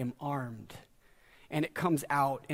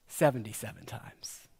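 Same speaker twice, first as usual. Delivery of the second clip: hushed whisper for Jesus' reply; whispered answer; 4 semitones lower than usual. Acted. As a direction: breathe it like a secret. Jesus answers Peter, sermon retelling.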